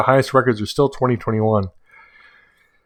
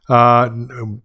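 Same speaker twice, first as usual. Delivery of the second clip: yawn. Real, not acted. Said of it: "poorly suppressed".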